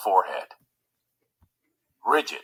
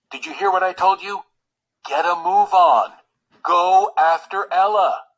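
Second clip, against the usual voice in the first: urgent push; 7 semitones higher, 5 dB louder than usual. Acted. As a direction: push him out the door. Valet urging prince.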